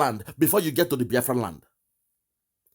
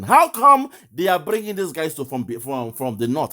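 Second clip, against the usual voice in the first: mock incredulous. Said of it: "he's still asking".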